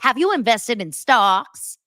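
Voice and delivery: hammed-up scolding question; mock yelling. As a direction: yell it in mock outrage, slowly. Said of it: "like, yelled at Lance".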